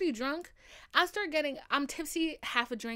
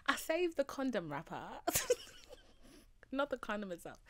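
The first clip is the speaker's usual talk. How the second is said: laughing confession; 4 semitones higher than usual. Real, not acted. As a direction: confess through embarrassed giggles. Laughing through an embarrassing confession.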